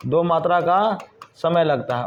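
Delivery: slow, spaced-out restatement of दो मात्रा; slow emphatic repeat. Shown as a demonstration. Teacher repeating the rule slowly for students. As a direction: drag it out so students note it down. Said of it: "उच्चारण में क्या बोलेंगे?".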